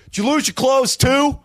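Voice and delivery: high mock clerk asking; hotel clerk voice. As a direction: squeak it out like a startled desk clerk. Hotel guy voiced in story.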